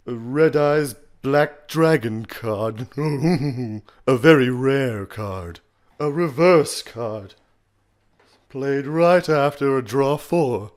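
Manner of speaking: slow, loud, breathy English villain; Maximilian Pegasus. Shown as a demonstration. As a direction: savour it slowly in a high, airy villain voice. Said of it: "as Maximilian Pegasus".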